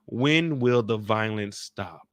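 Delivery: slow, drawn-out plea; a slow, weary when will it stop; pleading question. Real, not acted. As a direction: ask it slowly, like a real plea. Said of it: "slow, pleading question".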